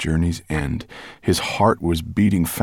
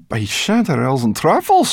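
a hint of a hungry brownie; lip-smacking delight; lightly voiced brownie; 7 semitones higher, 4 dB louder than usual. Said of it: "licking her lips".

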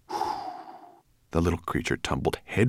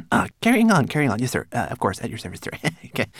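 high, nervous servant babble; flustered obedience; 7 semitones higher, 5 dB louder, much faster than usual. A narrator's reading. Servant scrambling to obey his master, high and flustered. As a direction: stammer eager compliance.

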